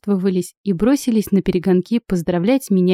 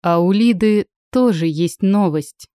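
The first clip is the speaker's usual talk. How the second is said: с гордостью. Acted. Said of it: "с гордостью заявил".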